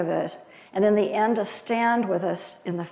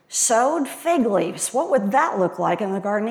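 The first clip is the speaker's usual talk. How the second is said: amused musing. Shown as a demonstration. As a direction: savor the odd picture, half smiling. Amused musing on fig leaves.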